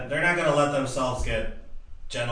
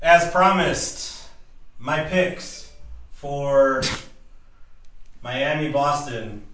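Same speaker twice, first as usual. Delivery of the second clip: mock announcer; 2 semitones higher, 5 dB louder, much slower than usual. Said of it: "announcing picks".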